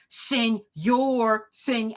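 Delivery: overdone Spanish accent on "Señor, sen-"; drawn-out, mock over-pronounced Spanish accent; exaggerated Spanish pronunciation. Shown as a demonstration. Critic showing needless exaggeration, overdone Spanish accent. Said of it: "I wouldn't over exaggerate the words in Spanish".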